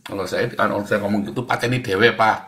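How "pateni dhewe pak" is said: defiant retort. Retold or imitated. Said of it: "Gitu saya jawab".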